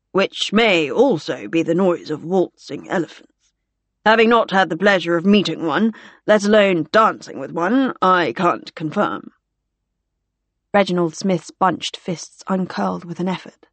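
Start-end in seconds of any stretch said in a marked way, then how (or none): 0.1-9.3 droll officer. Acted. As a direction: spin out the dry joke deliberately. Gore's drawn-out dry banter.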